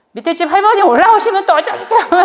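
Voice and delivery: high, loud parental nagging; mock nagging. Parent warns child about downstairs neighbour, mock nagging. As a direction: rattle off a worked-up mock warning.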